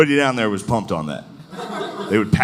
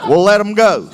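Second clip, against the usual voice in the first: mock grudging northerners; 4 semitones higher than usual. Northerners voiced.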